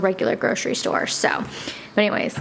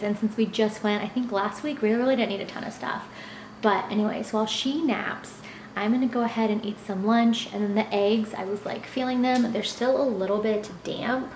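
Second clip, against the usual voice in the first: hushed, softer talk; quiet at night; 6 dB quieter than usual. Real, not acted. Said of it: "I'm talking a little bit quieter because Alondra is asleep".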